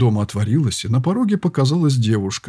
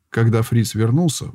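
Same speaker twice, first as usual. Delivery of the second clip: plain reading voice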